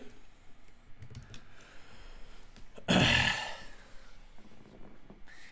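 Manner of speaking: throaty imitated monster sound; creature noise. Shown as a demonstration. Streamer guessing how his rigged creature sounds, throaty creature noise. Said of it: "what I think he's gonna sound like".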